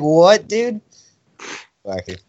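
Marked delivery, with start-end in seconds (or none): 0.0-0.8 high-pitched mock disbelief; retold incredulity. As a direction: imitate a baffled teenager's comeback. Acted incredulous reply to the dad.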